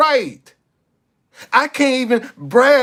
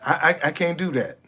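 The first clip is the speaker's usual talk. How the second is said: mock selfish person; 6 semitones lower than usual. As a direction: play the tightfisted guy who won't help, with sarcasm. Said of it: "I'm telling you how people actually think".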